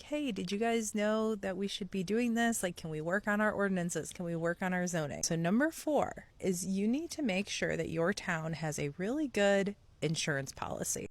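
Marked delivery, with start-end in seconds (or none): 0.0-5.2 curious. Retold or imitated. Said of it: "go in as more of a curiosity".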